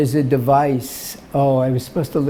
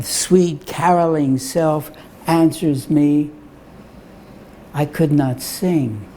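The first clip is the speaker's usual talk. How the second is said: poem recital. Acted. Poet reading E E Cummings to gallery audience, measured recital. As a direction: read it like a cherished poem.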